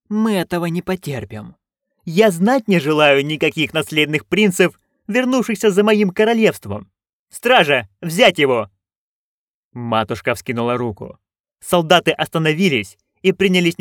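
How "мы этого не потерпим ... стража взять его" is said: imperious duchess. Acted. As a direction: lay down the law as the duchess. Duchess orders arrest.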